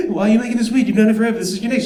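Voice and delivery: mild panicky inner monologue; panicked inner voice. Retold or imitated. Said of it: "internal dialogue".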